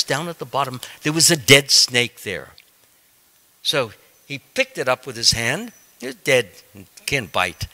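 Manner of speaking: ordinary talk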